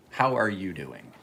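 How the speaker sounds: sincere quiet concern; concerned check-in. Real, not acted. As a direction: ask gently, knowing he's had a hard time. Had some stuff going on.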